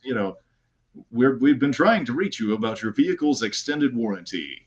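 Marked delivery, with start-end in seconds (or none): 1.1-4.7 lightly put-on announcer voice; announcer guy. Shown as a demonstration. Guest shows the announcer voice from their videos, announcer guy. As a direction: deliver it like a corny pitchman announcer. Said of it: "like, announcer guy".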